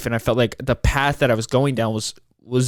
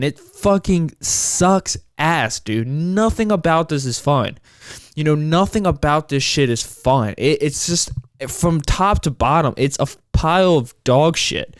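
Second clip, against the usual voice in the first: exasperated complaining; 3 semitones higher than usual. Real, not acted. Podcaster bitching about everything shutting down, exasperated. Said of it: "I'm bitching and I'm complaining here".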